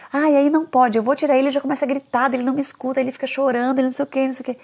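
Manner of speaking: whiny parent. Retold or imitated. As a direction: mimic a fed-up parent listing grievances. Imitating complaining parents.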